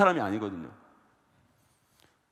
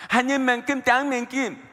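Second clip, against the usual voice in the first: put-on child's voice; 9 semitones higher, 4 dB louder, slower than usual. Pastor voices little daughter's answer.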